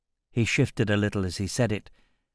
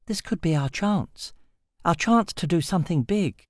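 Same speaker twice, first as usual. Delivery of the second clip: put-on higher, keen young woman leaning in by the fire; Sasha's eager voice; 7 semitones higher than usual. Sasha urging the group at the fire, higher and eager. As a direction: voice her higher and hushed with excitement.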